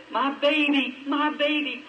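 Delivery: a mother's panic, lightly voiced; distressed mother crying out for her child; frantic mother's cry. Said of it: "somebody said".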